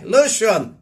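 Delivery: high, loud mock Scottish shout; a shaky attempt at a Scottish yell; Bobby K's Scottish call. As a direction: belt the name out in a hammed-up Scottish accent. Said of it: "my Scottish accent ain't my best, as we all know from, um, Bobby K".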